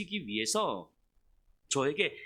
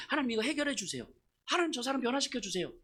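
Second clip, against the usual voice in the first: higher, urgent prayer; resentful tearful pleading; 6 semitones higher than usual. Acted. Begging God to change someone, resentful pleading. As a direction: plead upward to God, mildly acted. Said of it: "울면서 원망하면서 기도할 때".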